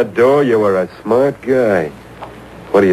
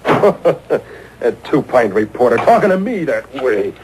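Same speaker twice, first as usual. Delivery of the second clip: scornful laugh; slower than usual. Acted. Fisher scoffs after reporter leaves.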